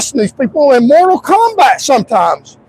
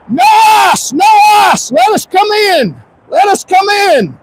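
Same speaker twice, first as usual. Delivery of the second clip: higher, shouted protest chant; mock protest yelling; 7 semitones higher, slower than usual. Mocking protesters who yell at the top of their lungs. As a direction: yell it like a crowd at a rally. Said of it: "People yelling at the top of their lungs".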